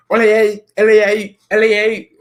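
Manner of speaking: high, loud fan chant-like shouts; shrieked imitation of outraged fans; mock screaming. Streamer imitating angry United fans, high mock screaming. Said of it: "they'll start screaming".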